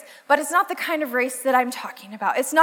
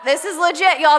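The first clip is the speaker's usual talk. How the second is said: laughing; 5 dB louder than usual. Real, not acted. Laughing call to audience.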